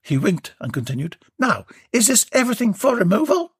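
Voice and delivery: high cheeky tradesman; chirpy workman teasing her name; Warren's voice. Acted. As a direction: wink it out. Warren joking at the door.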